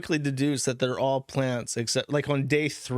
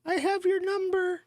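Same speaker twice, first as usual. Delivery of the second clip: put-on much higher, tiny squeaky baby voice. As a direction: squeak it like a creepy little baby. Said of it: "in a little squeaky baby voice".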